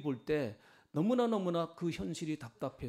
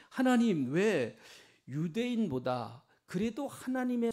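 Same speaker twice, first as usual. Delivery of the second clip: higher, emphatic remonstration, opening loud; impassioned protest; 3 semitones higher, 4 dB louder than usual. Acted. Preacher voicing Habakkuk questioning God, an insistent protest. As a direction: argue the case insistently, stretching key words.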